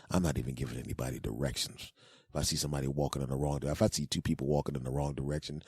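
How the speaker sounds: low, soft resentful mutter; hushed, fed-up muttering; grumbling to oneself. Acted. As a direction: grumble privately, well below normal pitch. Grumbling alone, refusing to advise.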